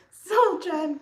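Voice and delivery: loud, high laughing exclamation; laughing fit. Real, not acted.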